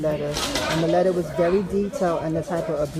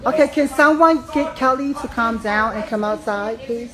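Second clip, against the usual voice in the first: calling out; 5 semitones higher, 4 dB louder than usual. Real, not acted. Calling across a noisy protest.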